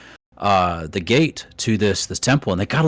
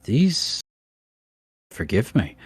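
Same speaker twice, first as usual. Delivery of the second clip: a worried little dwarf stammering out warnings; nervous dwarf NPC; 3 semitones higher than usual. Acted. DM voices dwarf Daslin.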